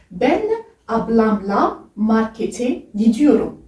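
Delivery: slow, careful Turkish: "Ben ablamla markete gidiyorum"; Turkish demo sentence. Shown as a demonstration.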